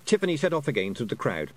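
usual speaking voice

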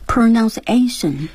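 each syllable drawn out slowly; slow, careful repetition. Shown as a demonstration. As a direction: say it slowly, like a student copying a teacher. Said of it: "go over the words and expressions".

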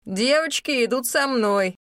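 brook no argument; firm command. Acted. Rahel commands the crowd.

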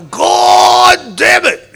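high, loud, slow mock shout; angry boss yell. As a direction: bellow it like the furious boss. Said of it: "that's how he'd react".

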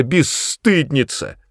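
high, slow, falling final insult; sharp reproach. A narrator's reading. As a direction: spit the insult out. Mother berates daughter.

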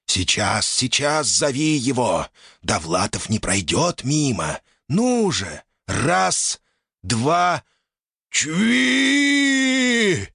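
high, eager little spirit; urging spirit. Acted. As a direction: coax and count him in. Earth spirit counts, urging.

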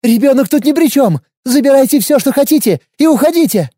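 trembling voice. A narrator's reading. Mother shields her child, voice trembling. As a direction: plead bravely while shaking. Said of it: "голос всё-таки дрожал".

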